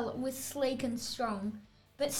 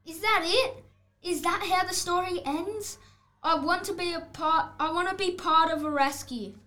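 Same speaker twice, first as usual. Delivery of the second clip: higher, louder pleading; disappointed protest; 4 semitones higher, 3 dB louder than usual. Acted. Wolf pleads with the storyteller, higher and whiny. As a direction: plead for a part in the rescue.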